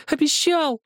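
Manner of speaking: put-on high, loud, slow child's scream; boy screaming. A narrator's reading. Zakhar beats Helmut's chest and screams at him, high and loud.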